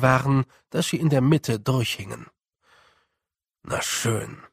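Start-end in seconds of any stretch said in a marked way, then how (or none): 3.6-4.4 resigned, breathed out on a sigh; sighing whisper. Acted. Rob gives in to the task, sighing and resigned. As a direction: give in with a weary sigh. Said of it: "sagte er und seufzte erneut".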